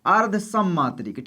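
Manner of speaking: अर्ध सममात्रिक spelled out slowly, each word weighted; slow emphasis. Shown as a demonstration. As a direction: drive home अर्ध सममात्रिक. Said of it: "क्या है?".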